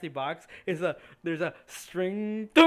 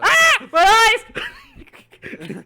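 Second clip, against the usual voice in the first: loud high shriek of pain; pained cry; 13 dB louder, much slower than usual. Acted. Seventh blinded by the spell, shrieking in pain. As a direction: scream as if blinded.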